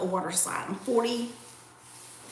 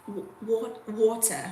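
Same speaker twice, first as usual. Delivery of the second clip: British accent. Shown as a demonstration. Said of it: "how do you say water with a British accent".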